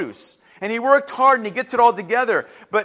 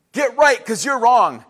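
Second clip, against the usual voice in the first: louder, slow, punched delivery; forceful pronouncement; 5 dB louder than usual. Acted. Preacher repeating God's paraphrased message, louder and forceful. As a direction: drive it home firmly at full voice.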